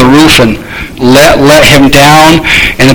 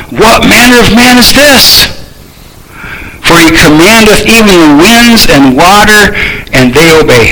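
amazed reading; 4 semitones higher than usual. Acted. Disciples' frightened wonder.

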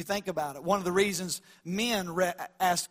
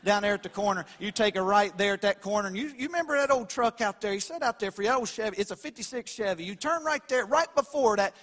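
southern drawl. Retold or imitated. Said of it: "That's how we do it in the South".

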